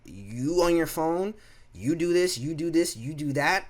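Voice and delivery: high, slow, bossy nagging; mock bossy manager. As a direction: lecture him like a petty boss. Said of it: "I'm team manager all the way".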